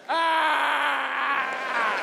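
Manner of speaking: mock crowd cheer; imitated crowd roar. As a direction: imitate four hundred people roaring. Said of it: "the crowd goes".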